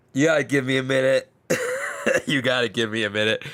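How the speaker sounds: mock tearful plea. Retold bawling as credits roll.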